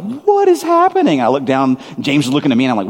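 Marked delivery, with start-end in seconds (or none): 0.0-1.2 sudden high, louder cry of disbelief; stunned. Retold or imitated. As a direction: blurt it out, totally caught off guard. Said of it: "and I was like".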